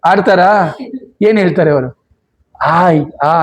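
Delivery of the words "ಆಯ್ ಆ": low, half-hearted ow of someone pricked; imitated pain cry. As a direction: act out a small cry of pain. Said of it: "ಅಂತ ಹೇಳ್ತಾರೆ".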